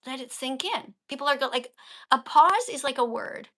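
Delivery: ordinary talk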